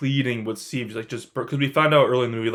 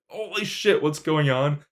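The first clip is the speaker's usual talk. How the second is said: startled outburst; 5 semitones higher than usual. Retold or imitated. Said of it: "different parts of the theater".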